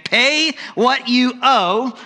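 slow, high harsh demand; mock menacing creditor; angry demand. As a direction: bark it at the debtor. Servant choking debtor, demanding.

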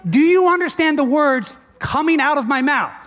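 acted high-pitched exasperation; frustrated Jesus. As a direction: lean on each word as if nobody is listening. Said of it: "I think this is frustrated Jesus".

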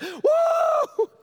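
high loud whoop of joy; joyful whoop. Retold or imitated. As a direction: let out a cheer. Woman celebrating healing.

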